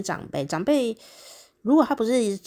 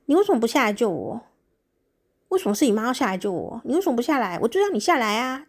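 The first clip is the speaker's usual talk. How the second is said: mock angry wife; 4 semitones higher, faster than usual. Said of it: "当然就会很生气啊".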